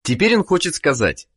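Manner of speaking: ordinary talk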